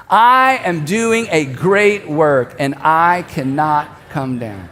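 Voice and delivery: very slow, evenly spaced for a crowd; leading group recitation. Shown as a demonstration. Preacher leads everyone saying it together, slow recitation. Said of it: "all of us to say this out loud together".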